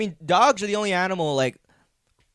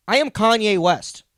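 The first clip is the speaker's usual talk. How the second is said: slow, higher, louder proclamation; grand declaration; 6 semitones higher, 6 dB louder than usual. Pretend. Joking he is a famous rapper, slow grand proclamation. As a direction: announce it like a self-proclaimed genius.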